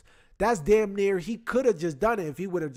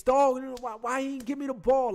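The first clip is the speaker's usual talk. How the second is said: higher, whining gripe to teammates; whiny complaint; 6 semitones higher than usual. Retold or imitated. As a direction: whine like a sore player. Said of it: "popping to the teammates".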